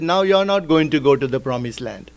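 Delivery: an angry God scolding Moses for striking the rock; stern voice of God. Retold or imitated. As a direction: speak as God rebuking Moses, weighty and low. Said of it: "And God said".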